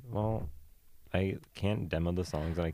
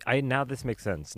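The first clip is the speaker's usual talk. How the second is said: realization; 6 semitones higher, 4 dB louder than usual. Real, not acted. Sudden realization.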